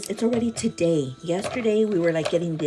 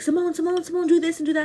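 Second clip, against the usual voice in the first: higher, louder nagging voice calling her name; mocking demands; 7 semitones higher, 4 dB louder, faster than usual. To her viewer, mocking coworkers who nagged her. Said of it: "yesterday was so stressful".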